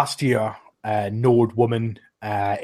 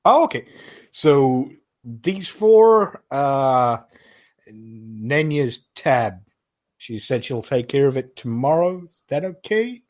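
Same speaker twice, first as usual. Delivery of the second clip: innkeeper voice; 3 semitones higher than usual. Acted. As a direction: settle the tab kindly.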